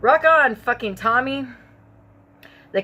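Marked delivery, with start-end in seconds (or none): 0.0-1.5 excited cheer. Acted. Exclaiming to herself.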